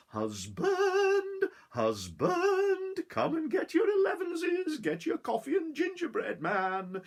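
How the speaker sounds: high, loud call across the fields. Acted. Wife calling husband in from the fields, loud high call. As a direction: call her husband in from far away. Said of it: "She called out into the fields".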